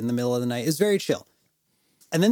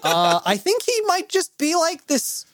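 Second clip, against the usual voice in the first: wry joke; 13 semitones higher than usual. Real, not acted. Joking wry aside.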